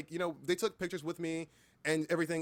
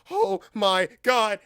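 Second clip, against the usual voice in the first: a loud, slow, drawn-out squeal of joy; stretched-out excited scream; fan screech; 6 semitones higher, 12 dB louder, much slower than usual. Retold or imitated. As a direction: shriek it like a thrilled fan meeting an idol. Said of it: "a loud collective screech came from her".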